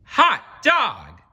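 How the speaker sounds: high, loud gleeful shout; excited cry. A narrator's reading. Class cheering their principal's absence, a high loud whoop. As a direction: cheer like kids let loose. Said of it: "cried the class".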